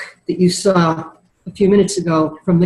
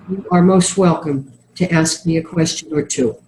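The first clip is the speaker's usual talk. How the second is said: nasal voice. Real, not acted. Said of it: "putting up with my nasal voice".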